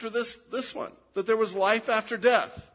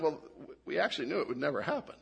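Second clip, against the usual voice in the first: quieter, rushed and fast, a bit lower; sheepish admission; 4 semitones lower, 6 dB quieter, much faster than usual. Pretend. Doubting friend sheepishly confessing to the fan, quiet and fast. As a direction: mumble it out quickly, caught out.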